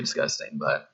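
right after swallowing water; speaking straight after a drink; just after a sip. Real, not acted. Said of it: "let me get a drink of this water".

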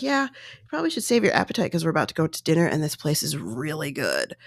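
lightly imitating a casual, breezy reply, quick; casual offhand. Husband to wife about dinner, lightly voiced casual offhand reply. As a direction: toss it off like it's nothing, quickly. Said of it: "that's how he said it".

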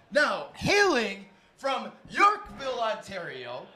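hailing-from shout for the first guest; ring announcer shout. Acted. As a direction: announce her like a prizefighter. Host announces guest like a boxer.

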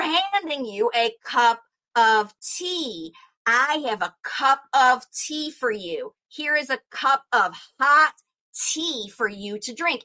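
slow, easy, clearly spaced words for a learner. Shown as a demonstration. Teacher offering tea to a learner, slowly and clearly. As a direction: hand it over slowly, word by word. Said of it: "says it slowly".

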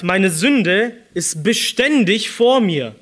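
slow, weighted „Meine Sünde ist beständig vor mir.“; urgent emphasis. Shown as a demonstration. Preacher quotes David's confession to the congregation, slow and emphatic. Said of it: "Das ist eindringlich".

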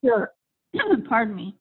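hoarse, raspy voice. Real, not acted. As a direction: talk through a raspy throat. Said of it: "I'm sorry for my raspy voice".

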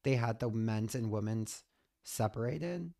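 hoarse, scratchy raspy voice; like she smokes a pack a day, raspy. Real, not acted. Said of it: "What the fuck is going on with my voice?".

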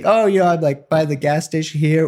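put-on teen lying to parents, high nervous casual; nervous cover story. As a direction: fake calm while lying to parents. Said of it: "And so I say".

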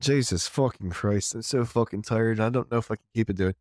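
half-slipped-into Irish accent; weary attempt at an Irish brogue. Shown as a demonstration. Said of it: "speak in an Irish accent".

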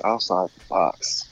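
low, slow announcer rumble. Shown as a demonstration. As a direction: drawl it deep like a promo. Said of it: "Let's see".

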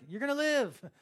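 high, loud, elated announcement; exclaimed good news. Acted.

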